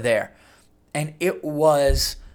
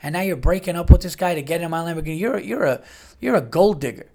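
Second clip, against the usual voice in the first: accusing rant; 4 semitones higher, faster than usual. Retold or imitated. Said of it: "You go".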